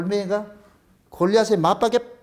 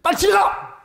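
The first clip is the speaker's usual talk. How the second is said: mock scolding; 4 semitones higher than usual. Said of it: "되게 욕을 하는".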